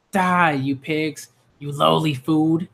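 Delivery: lightly voiced demon, slowing down on the last words; a hint of a monster talking down to its prey; menacing demon. Reading a manga demon's threat to the children, in a lightly growled monster voice.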